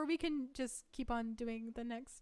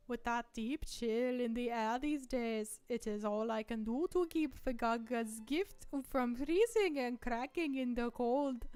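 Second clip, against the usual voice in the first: put-on Hungarian accent reading. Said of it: "Hungarian accent".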